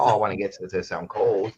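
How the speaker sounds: smooth radio host read; radio announcer voice. Shown as a demonstration. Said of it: "I sound like a radio announcer".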